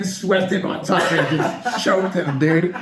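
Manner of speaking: chuckling out the punchline, slowed down; laughing through it. Real, not acted. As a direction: laugh as you land the story's payoff. Laughing while telling the takedown.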